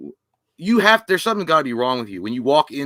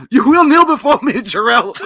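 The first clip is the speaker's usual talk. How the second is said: high, loud villain proclamation; cold rasping evil emperor; 9 semitones higher, 7 dB louder than usual. Pretend. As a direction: command like a mad tyrant. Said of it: "I would scream in anger".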